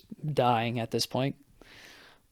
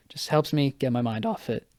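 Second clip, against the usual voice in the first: voice crack; 4 dB quieter than usual. Real, not acted. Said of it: "Voice crack".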